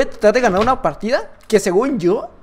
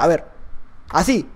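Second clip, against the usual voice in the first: ordinary talk, nothing marked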